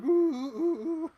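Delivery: high, loud mock tusken hoots; sand people call. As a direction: hoot like raiders in the desert. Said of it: "and they're like".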